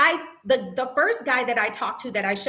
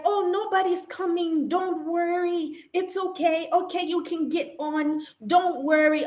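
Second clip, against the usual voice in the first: higher, soothing dismissive voice; mock reassuring manager; 4 semitones higher than usual. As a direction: brush it off like nothing happened. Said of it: "And she's like".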